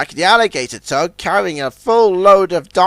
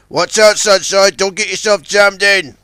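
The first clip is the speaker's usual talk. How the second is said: louder urgent warning; warning call; 4 semitones higher, 5 dB louder than usual. Acted. Big Mac warns Sunshine among tumbling logs, loud. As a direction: call out before he gets stuck.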